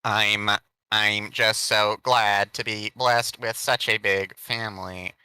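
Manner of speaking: slow, heartfelt, a touch overdone father; emotional father. Acted. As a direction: ham up a teary dad's gratitude. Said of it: "I have to do this one".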